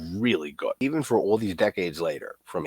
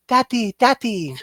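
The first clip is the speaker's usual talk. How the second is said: put-on much higher, slow, yearning child's call; child calling daddy; 4 dB louder than usual. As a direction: cry out for daddy like the little boy. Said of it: "says it in that accent".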